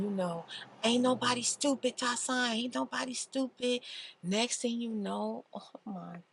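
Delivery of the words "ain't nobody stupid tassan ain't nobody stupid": louder, in-your-face warning; angry confrontation. Retold or imitated. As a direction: call him out to his face. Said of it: "Stephanie all up in his face".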